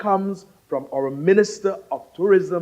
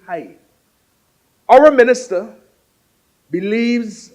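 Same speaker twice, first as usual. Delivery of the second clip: repeats "Our minister" rising and louder each time; rhetorical build; 4 dB louder than usual. Real, not acted. Host building up the minister to the crowd, rising rhetorical stress. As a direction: lift the voice on "our" and drop on "believes". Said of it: "he stressed on the points that were important".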